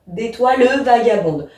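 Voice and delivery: "d'étoile vagabonde" with the final e of "étoile" clearly sounded; sounded mute e. Shown as a demonstration. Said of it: "je sais que je suis obligée de".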